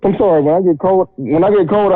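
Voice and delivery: talking through a yawn. Real, not acted. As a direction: yawn mid-sentence. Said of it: "I start yawning".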